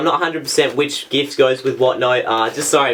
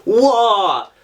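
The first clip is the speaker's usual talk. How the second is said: surprised whoa; 5 semitones higher than usual. Real, not acted. Surprise at letter.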